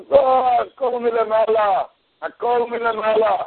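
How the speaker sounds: slow, unruffled reply; calm acceptance. Retold or imitated. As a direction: accept it all as from above. Rabbi calmly accepts scalding tea.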